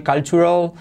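"cultural" as kaltshural; teacher modeling the right cultural; correct cultural. Shown as a demonstration. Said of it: "Cuidado de no decir".

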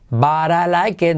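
"But I like it" lento, acabado en "ket"; la i como e. Shown as a demonstration. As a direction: di "But I like it" con e en "it". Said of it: "no but I like it". ("But I like it" estirado, final en e)

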